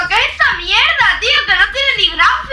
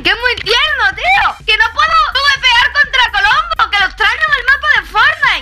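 mock panic. Gamer yelling at his friend's scary skin, in hammed-up panic. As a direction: yell like the skin is coming for you, played up.

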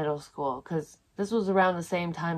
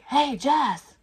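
high call-out across a parking lot; mock yelled greeting; imitated yell; 9 semitones higher, 4 dB louder than usual. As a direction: mimic someone hollering a name, pitched up. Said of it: "I heard someone yell my name".

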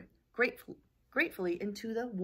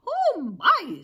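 high, loud wail of dismay; mock dismay; 12 semitones higher, 11 dB louder than usual. Henny Penny hears the sky is falling, wailed dismay. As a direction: wail it like a shocked hen.

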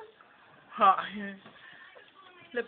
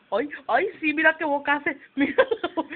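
laughing out the words, louder; can't hold back a laugh at the pout; real laughter breaking through; 4 dB louder, faster than usual. Real, not acted.

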